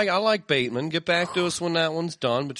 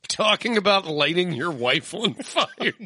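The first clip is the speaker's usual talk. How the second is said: laughing mock question; 5 semitones higher than usual. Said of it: "and just be like".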